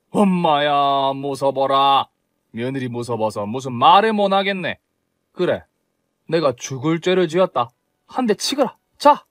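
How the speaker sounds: mother-in-law sarcastically daring the daughter-in-law to hit her; sarcastic mock fear. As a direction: pretend to be scared, sneering.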